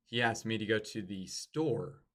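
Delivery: "asked" said loudest and longest; stress on asked. Shown as a demonstration. Coach shows a change of meaning, stress on asked. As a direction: lean hard on "asked". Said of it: "See how those are all different?".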